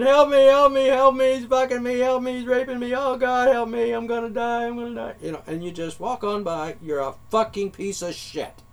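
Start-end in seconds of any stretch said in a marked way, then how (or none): 0.0-5.1 high, loud, desperate screaming for help; imitated scream. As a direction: shriek as the girl being attacked. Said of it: "And she's screaming".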